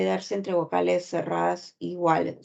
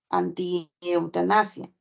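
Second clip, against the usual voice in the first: "anti-eutanasia" said slowly with a rising end; slow demo word; slower than usual. Shown as a demonstration. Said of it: "Por ejemplo, en la palabra". (pronunciar "anti-eutanasia" despacio, con tono que sube)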